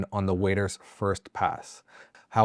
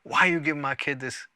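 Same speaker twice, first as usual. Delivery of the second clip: hillbilly dad; 5 semitones higher than usual. Acted. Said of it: "blame ... and say".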